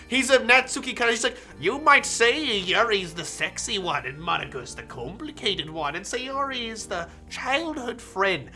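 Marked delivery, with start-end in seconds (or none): 1.6-8.5 mustache twirling villain. Acted. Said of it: "mustache twirling type voice".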